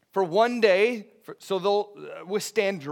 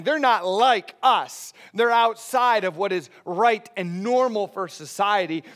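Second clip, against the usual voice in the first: snobbish sneer; 3 semitones higher, 5 dB louder than usual. Retold or imitated. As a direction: look down your nose at them, mildly. Society snubbing outsiders quoted.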